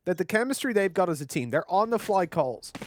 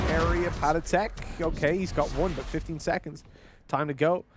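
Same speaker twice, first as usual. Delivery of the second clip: brisk caster calling the round; live play-by-play; 3 semitones lower than usual. Acted. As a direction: call the action as it happens.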